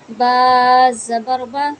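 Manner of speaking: slow, loud spelling, the final बा kept short; short zabar drill. Shown as a demonstration. Teacher spelling out Qaida syllables for students, slow and loud. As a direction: say बा crisply with no stretch or jerk. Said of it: "हमने ज़बर को नहीं खींचना".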